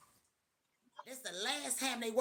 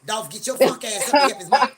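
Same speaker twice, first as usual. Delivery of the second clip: urgent holler; 14 dB louder than usual. Retold or imitated. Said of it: "my heart was over here in my chair like".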